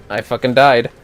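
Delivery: normal talking voice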